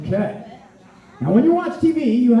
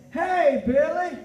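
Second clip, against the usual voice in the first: call out; 6 semitones higher, much slower than usual. Shown as a demonstration. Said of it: "I'm not as good at it".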